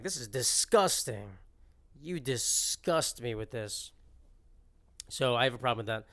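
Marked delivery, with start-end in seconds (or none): 0.0-3.9 slow, drawn-out disgust; mock disgust. Scolding friends over exclamation points, mock disgust. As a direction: stretch the words out in exaggerated revulsion.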